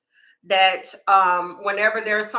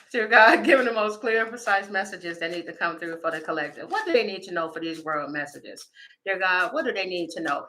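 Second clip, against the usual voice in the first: prayer; 3 semitones lower than usual. Acted. Prays over the reading.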